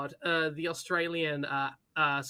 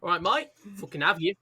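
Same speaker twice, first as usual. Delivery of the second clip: hammed-up Brummie accent, bursting much higher and louder; mock Brummie; 5 semitones higher, 8 dB louder than usual. Defending Birmingham to a friend in a loud mock Brummie accent. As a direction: ham up a Birmingham pub lad. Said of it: "your, like, attempt to do Brommy".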